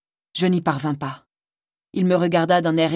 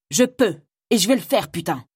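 defiant retort; 3 semitones higher than usual. Acted. Rena defies Frima on her way out, angry. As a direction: throw it back at her and go.

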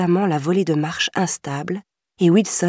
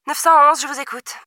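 barked; 9 semitones higher, faster than usual. A narrator's reading. Operator barking at the caller, curt and brisk. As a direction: snap out the greeting like a busy dispatcher. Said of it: "aboya l'opératrice".

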